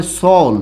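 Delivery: সল, short and clipped to one syllable; সল, one open syllable; dialect pronunciation. Shown as a demonstration. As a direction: say সল as a regional form of ছেলে. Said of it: "আবার এরকম বলা হয়".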